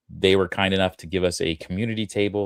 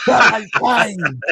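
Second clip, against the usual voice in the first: mock villain; 9 dB louder than usual. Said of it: "some crazy".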